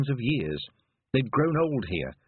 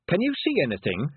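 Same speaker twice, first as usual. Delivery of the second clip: higher, lifted call; 6 semitones higher, 3 dB louder than usual. A narrator's reading. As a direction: call across to him. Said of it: "she called".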